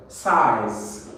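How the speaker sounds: "Size" drawn out with a falling tune; pronunciation drill. Shown as a demonstration. Teacher leads everyone pronouncing together, pronunciation drill. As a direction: model "Size" slowly for repeating. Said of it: "Let's pronounce together".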